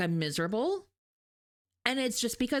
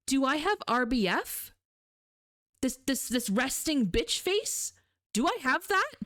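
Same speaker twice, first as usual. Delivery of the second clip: a rattled stoic man begging for the truth; mock-worried old professor, voice climbing at the end; anxious professor; 3 semitones higher, slower than usual. Shaken professor repeats question.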